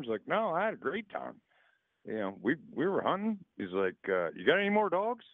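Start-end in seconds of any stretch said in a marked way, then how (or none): 0.3-3.4 put-on enthusiastic kid. Kid answers in the joke. 4.4-5.2 high-pitched, innocent question; acted high kid's punchline; eager kid in a joke.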